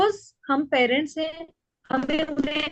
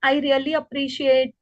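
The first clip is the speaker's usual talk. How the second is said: appreciating mother; much slower than usual. Shown as a demonstration. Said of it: "मैं अगर बच्चे को कह रही हूँ".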